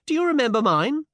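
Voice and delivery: put-on high, smiling young lady; asked with a smile. A narrator's reading. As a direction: ask playfully high, with a smile. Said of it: "she asked with a smile".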